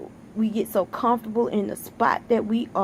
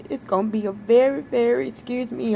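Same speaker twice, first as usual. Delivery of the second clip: fighting back tears. Real, not acted. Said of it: "I'm trying my best not to cry".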